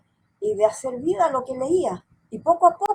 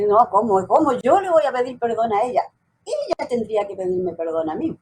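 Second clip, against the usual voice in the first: indignant protest; 2 semitones lower than usual. Retold or imitated. Daughter refusing to ask her mother's forgiveness, indignant. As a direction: push back as if unfairly asked.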